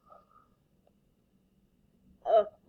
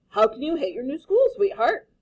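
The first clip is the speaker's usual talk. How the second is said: chuckling dad; 4 semitones higher, 8 dB louder than usual. Acted. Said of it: "Mister Hartwell chuckled".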